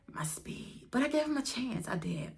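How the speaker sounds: hushed, breathy confession; whispered aside. Real, not acted. Whispering an aside to her viewers. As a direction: let it drop to a whisper.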